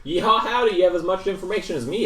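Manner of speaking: high twangy cowboy sheriff voice; hammy yeehaw robot lawman. Acted. GM back in sheriff voice.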